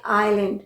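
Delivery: "आइलैंड" with no s sound; silent S. Shown as a demonstration. Teacher giving an example word, silent S. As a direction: say "आइलैंड", eye-land, s silent. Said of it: "यहाँ पर एस pronounce नहीं होता".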